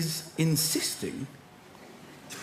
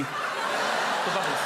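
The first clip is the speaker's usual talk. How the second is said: slow savouring; much slower than usual. Real, not acted.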